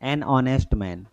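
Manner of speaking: An honest man said slowly, honest with no h; slow model phrase. Shown as a demonstration. Teacher modelling the phrase for students, slow and careful. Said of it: "ऑनेस्ट पढ़ते हैं".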